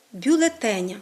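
бюлетеня said бюлеТЕня, full е kept; stress kept on ТЕ. Shown as a demonstration. Teacher declining the word, stress on бюлеТЕня. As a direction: hold the beat on ТЕ in бюлетеня. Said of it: "який зберігається".

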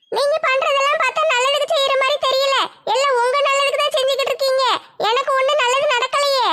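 put-on a stubborn girl holding her ground; young woman Nimmi. Nimmi complaining.

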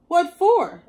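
cat voice. Acted. Cat asking the dog why he apologizes. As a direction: ask it like a curious cat.

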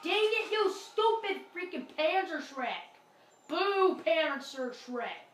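angry outburst at the gun; frustrated yell. Real, not acted. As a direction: shout it like you just died. Dies in game, rages at gun.

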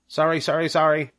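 high, quick gander voice; a fussy goose backing off; flustered gander. Acted. Gander apologizing to Charlotte, high and flustered.

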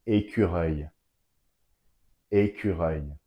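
"Écureuil" with French u, eu and y sounds; French pronunciation. Shown as a demonstration. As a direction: model "Écureuil" as é-kü-reuy for learners. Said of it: "Y sounds together in one word".

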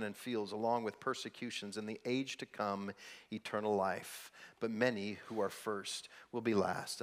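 low, soft, measured Bible reading; a pastor reading scripture to the congregation, low and hushed. Acted. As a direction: read the passage with quiet reverence. Reads the scripture passage aloud.

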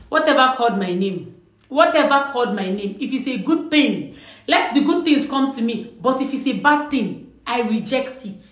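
clear, open declaration, not whispered; spoken out. Shown as a demonstration. Answering an unseen caller who called out, spoken aloud. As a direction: say it out, full voice. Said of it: "you say it out again".

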